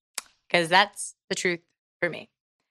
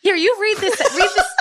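after-school special voice; 11 semitones higher than usual. Acted. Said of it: "after school special voice".

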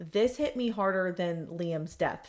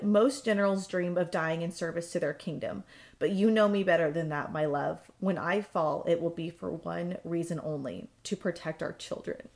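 tender letter read; 4 semitones lower than usual. Retold or imitated. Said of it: "And she said".

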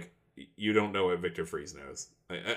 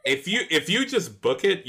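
laughing; 9 semitones higher, 5 dB louder than usual. Real, not acted. GM laughs while answering.

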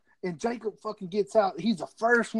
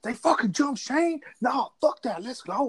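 retold Irish temper; 6 semitones higher than usual. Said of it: "the fucking Irish comes out in him".

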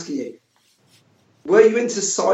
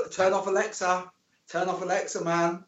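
dropped to a hush so Alexa won't hear; lowered voice, mock secretive warning; 3 semitones higher, 7 dB quieter than usual. Joking about Alexa listening in.

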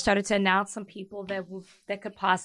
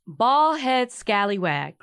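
mock reading; much slower than usual. Shown as a demonstration. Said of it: "I'd like to read something".

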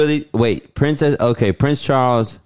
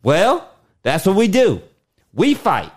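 acted Southern drawl; 3 semitones higher than usual. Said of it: "Your accent was a little much".

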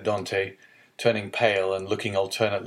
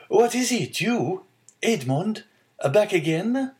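put-on broad Marseillaise accent; 11 semitones higher, 3 dB louder than usual. A narrator's reading. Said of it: "with a broad Marseillaise accent".

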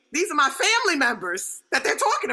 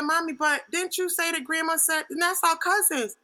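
higher, puzzled appeal; questioning daughter; 4 semitones higher than usual. Retold or imitated. Daughter calling Mommy about the cousins, questioning. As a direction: raise the pitch, lightly challenging.

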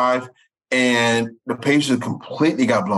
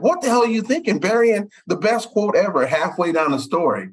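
raised-pitch retold self-reproach; exasperated self-scolding; 6 semitones higher than usual. Reporter retelling how he scolded himself, exasperated. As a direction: act out kicking yourself, pitched up. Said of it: "I'm so mad at myself".

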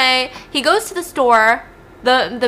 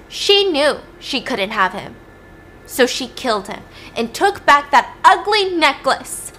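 bitter accusation, higher towards the end; accusing witness; 5 semitones higher, 4 dB louder than usual. Acted. Mother accusing the defendant in court, acted bitterly. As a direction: press the accusation, leaning on the words.

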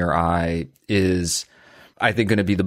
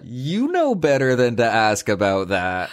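cheeky; 2 semitones higher than usual. Shown as a demonstration. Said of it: "a cheeky answer".

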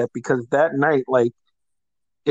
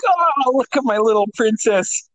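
higher, sing-song mockery; mock-sweet teasing; 8 semitones higher than usual. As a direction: tease him like a pampered princess. Friend teasing him.

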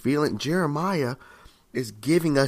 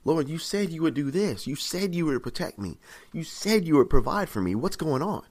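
higher, pleading but restrained questioning; respectful arguing; 4 semitones higher than usual. Acted. Believer arguing with the Lord, respectfully pleading. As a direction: argue respectfully, appealing to broken promises. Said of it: "but respectfully, you're like".

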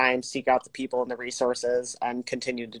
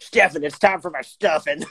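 laughing bro voice; 4 dB louder than usual. Pretend. Mocking demanding gym bro.

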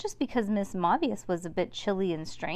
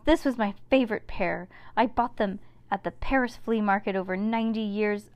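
indignant, raised scolding voice; wicked stepmother; 3 semitones higher, 5 dB louder than usual. Acted. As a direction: scold about the ruined gloves. Mavius scolds over gloves.

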